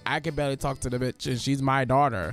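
low, casual homie voice; lightly voiced Zeus brushing him off, low and lazy; Zeus as a chill dad. Zeus waving off his brother Hades, low and casual. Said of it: "And then Zeus is like".

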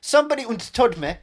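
lyrics recited as fake German; hammed-up Germanised English; mock German accent.

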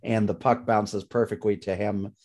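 worn-out, croaky delivery; hoarse voice. Real, not acted. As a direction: voice giving out, rough and strained. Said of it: "my voice is giving out on me".

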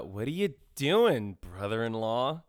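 slow, drawn-out sultry tease; mock step-bro quote. To his cohost, mocking the movie romance as a slow, hammy tease. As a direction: drag out brother-in-law like a cheesy film line. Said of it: "Do you get what I just quoted?".

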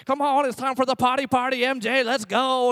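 put-on mildly hyped-up dad cheering on a toddler; playful potty cheer. Dad rallies his toddler for potty training, playful cheer. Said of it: "come up with this little potty dance".

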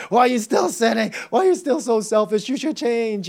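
nagging mock self-reproach; guilt-ridden self-scolding. Preacher acting out the guilt response, nagging mock reproach. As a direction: needle yourself with guilty questions.

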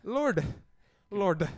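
"Lord" drawn to its final sound; pronunciation try-out. Shown as a demonstration. Hosts puzzle over a singer's name, pronunciation try-out. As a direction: say "Lord" with a released, voiced ending. Trying out how a singer's name is pronounced.

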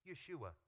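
Yeshua said as yoo-shoo-ah; Hebrew pronunciation. Shown as a demonstration. Pastor giving the Hebrew name, Yeshua as yoo-shoo-ah. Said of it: "Hebrew Bible name".

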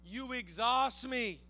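hushed, deliberate, casual refusal to budge; Daniel. Acted. Daniel answering those who want him to stop praying, quietly resolute. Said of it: "Daniel's like".

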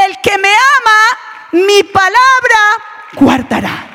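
declaring the verse firmly to the congregation; emphatic restatement. Shown as a demonstration. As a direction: proclaim the verse again with force on palabra.

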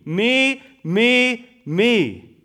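each "me" hit firmly; stress on me. Shown as a demonstration. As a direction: pound the word me. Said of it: "put your eyes on the me".

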